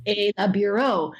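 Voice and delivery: hammed-up French nonsense, pitch jumping up; mock French babble. Mom teasing her kids with fake French, playful and exaggerated. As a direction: rattle off random French words like a show-off. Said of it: "And I'm like".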